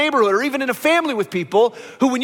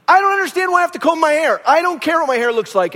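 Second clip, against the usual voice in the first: put-on whiny child; 5 semitones higher than usual. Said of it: "And he's going".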